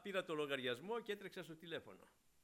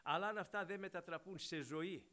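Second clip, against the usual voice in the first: usual speaking voice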